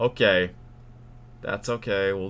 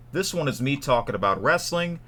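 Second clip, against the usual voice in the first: raised, higher presenter voice; too loud; 5 semitones higher, 4 dB louder than usual. Real, not acted. Telling viewers about the wrestling channel, too loud. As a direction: pitch it up and project to viewers. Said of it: "I was talking too loud".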